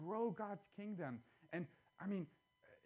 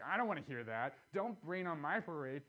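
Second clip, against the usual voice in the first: a touch of mock defensiveness, a bit louder; defensive; 5 dB louder than usual. Husband brushing off wife's objection to his plan, mildly defensive. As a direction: brush off the idea like a hurt husband. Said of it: "super defensive".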